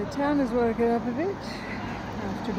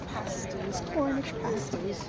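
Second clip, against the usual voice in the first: put-on Cornish accent; 6 semitones higher, 3 dB quieter, slower than usual. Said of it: "I can't stop doing my Cornish accent".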